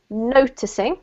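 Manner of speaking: noticing as NOticing, rising at the end; NO in noticing carries the weight; stress on first syllable. Shown as a demonstration. Teacher models noticing, first syllable stressed. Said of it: "emphasis on the first syllable".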